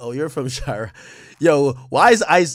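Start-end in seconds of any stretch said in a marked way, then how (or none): 0.0-0.9 very quiet, low, mocking sarcastic tone. Retelling how Ice answered on hearing where the speaker is from, imitating Ice's sarcastic voice. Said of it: "Ice's voice is so like sarcastic".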